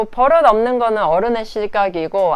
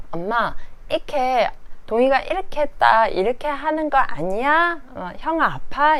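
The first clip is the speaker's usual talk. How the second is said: put-on childlike voice; 6 semitones higher than usual. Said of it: "이러면서".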